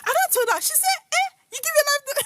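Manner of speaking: high, loud squeal through real laughter; crying with laughter. Real, not acted. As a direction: push the story out while cracking up. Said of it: "I started crying and laughing".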